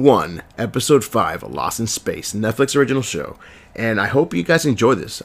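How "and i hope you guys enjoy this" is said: hoarse from a cold; rough, raspy throat. Real, not acted. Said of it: "excuse my raspy voice".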